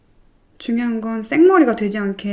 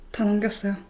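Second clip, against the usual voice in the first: normal talking voice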